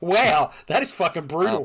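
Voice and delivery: high, loud and laughing; laughing shock. Real, not acted. Reacting to a brutal joke, loud laughing disbelief. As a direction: laugh through the words in shock.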